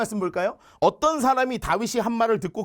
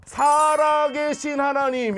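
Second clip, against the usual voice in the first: very slow, higher and louder, every syllable weighed; proclaimed slowly; 6 semitones higher, 4 dB louder, much slower than usual. Real, not acted. Preacher proclaiming the living God to the congregation, slow and loud. Climactic scripture phrase proclaimed.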